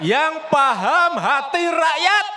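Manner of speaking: rising to a fiery shout; building rally shout. Real, not acted. Rising rally speech climax.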